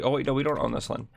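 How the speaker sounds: usual speaking voice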